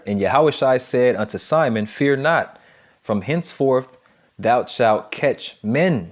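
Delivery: slow, deliberate reading of a Bible verse; scripture reading. Acted. Preacher reads the verse to the congregation, slow and deliberate. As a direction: lift the verse out slowly for the congregation.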